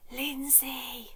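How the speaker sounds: whispered name; whispered name, very soft. Shown as a demonstration. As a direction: breathe the name softly. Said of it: "I'll whisper mine".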